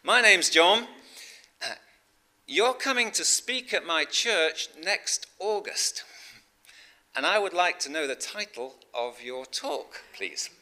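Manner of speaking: high, loud put-on Canadian voice; Canadian accent. Canadian caller asks guest speaker for his talk title, put-on Canadian accent. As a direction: play the Canadian caller, pitched well up. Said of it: "Excuse the accent".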